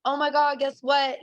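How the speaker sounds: mildly excited, sharing big news with the boss; super excited. Retold or imitated. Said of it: "So I'm super excited".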